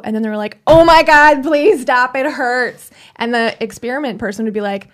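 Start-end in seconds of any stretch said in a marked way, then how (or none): 0.7-2.9 high, loud, hammed-up cry of pain; mock pained plea. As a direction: beg them to stop, overacted. Retold shock experiment victim pleading.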